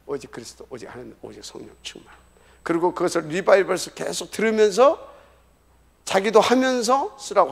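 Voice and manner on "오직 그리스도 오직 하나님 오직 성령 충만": low, quiet recitation; soft recording demo. Shown as a demonstration. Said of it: "그것을 녹음을 해주세요". (녹음하듯 낮고 조용하게 읊조리기)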